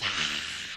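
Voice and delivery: low, voiceless rasping exhale; ferocious breath. A narrator's reading. Storyteller imagining the film's clawing nails, ferocious breath.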